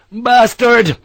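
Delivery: loud, high curse; furious yell. Acted. Harper curses the French officer, furious. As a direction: spit the word in fury. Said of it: "The Irishman was in a fury".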